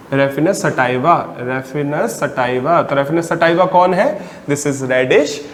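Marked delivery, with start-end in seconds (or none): 0.1-2.8 the Latin name drawn out slowly; slow dictation. Shown as a demonstration. Teacher spelling out the scientific name for students, slowly. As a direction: say each syllable of Raphanus sativa for the notes.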